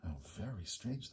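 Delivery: soft murmur. Acted. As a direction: murmur it together. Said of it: "they all murmured".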